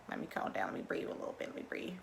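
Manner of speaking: whispered self-calming. Real, not acted. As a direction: whisper to steady your own nerves.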